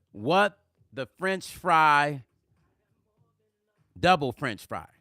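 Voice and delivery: amazed reaction. Pretend. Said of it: "you're going to say".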